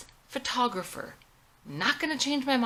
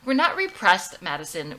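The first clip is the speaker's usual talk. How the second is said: defensive; 6 dB louder than usual. Acted. Mother defending family.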